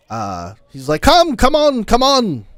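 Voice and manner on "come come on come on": high, insistent come-on, come-on; high-pitched eager beckoning; eager old traveler beckoning. Acted. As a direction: wave them over like an excited old man. GM voicing eager NPC Volo.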